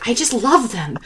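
mock adoration with punched high words; enthusiastic dad. Dad gushing about jiggle physics, enthusiastic. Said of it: "he was so enthusiastic about".

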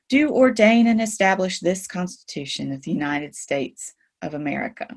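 a lightly formal recital; formal reading. Acted. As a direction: read it like a solemn public document. Reads the preamble aloud.

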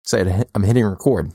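talking through a mouthful; words round a bite of food; mouth full. Real, not acted. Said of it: "my mouth is full".

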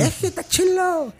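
put-on slow, high narco-series Sinaloa accent. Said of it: "ahí son como los narquillos".

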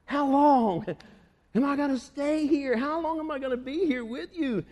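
sighing, weary lament rising at the end; weary Jesus. Retold or imitated. Jesus complaining about the crowd, weary. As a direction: groan it out, tired of them. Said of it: "He's like".

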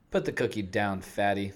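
smart fridge giving a blunt order; lightly voiced talking appliance; a softened mock robot scold. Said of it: "maybe less robotic voice".

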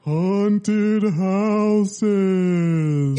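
lightly hammed countdown announcer; SNL announcer. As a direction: present each number like a late-night show host. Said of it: "Why am I doing like the S N L announcer?".

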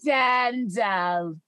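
"Dendel" with the R dropped; soft-R imitation. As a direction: say "Dendel" slowly, R left silent. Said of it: "it's a soft R".

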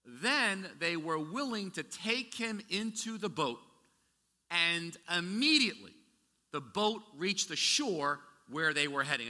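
slow, measured Bible reading; scripture reading. Acted. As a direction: read the passage with weight.

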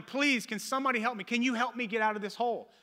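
retold yelling. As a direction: imitate someone calling up from a hole. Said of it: "And the guy's yelling".

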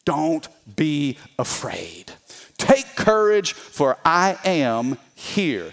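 slow, low comforting words; calm the frightened disciples gently; Jesus reassuring. Acted. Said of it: "what did he say".

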